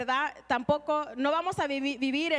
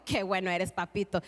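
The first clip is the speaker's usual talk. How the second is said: cariño agradecido; 9 semitones lower than usual. Acted. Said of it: "yo agarré esto y dijo".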